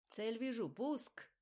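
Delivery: high, loud urgent shout; excited combat callout. A narrator's reading. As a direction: bark out the launch order. Pilot fires missile.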